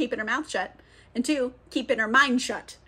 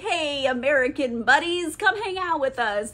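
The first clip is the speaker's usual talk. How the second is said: friendly welcome; 3 semitones higher than usual. Retold or imitated. Vampire troupe invites the newcomers to hang out, friendly mock welcome. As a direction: imitate a welcoming, chummy greeting. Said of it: "They're very nice".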